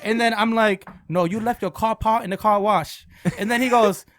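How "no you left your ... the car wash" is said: lightly put-on Asian accent; mock Asian accent. Fake car wash owner correcting the customer, mock Asian accent. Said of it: "There's no Asian guy that owns".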